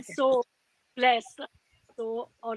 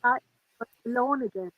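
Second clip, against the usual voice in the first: choppy broken-up connection; tape dropouts; faster than usual. Real, not acted. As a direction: voice cutting in and out. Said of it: "Your, your sound keeps cutting out".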